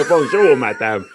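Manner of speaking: laughing, hammed-up English-accented French; exaggerated English accent in French. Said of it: "I started really putting it on".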